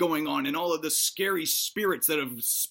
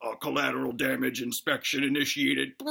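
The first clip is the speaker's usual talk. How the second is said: robot; 5 semitones lower than usual. Acted. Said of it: "And then the robot says".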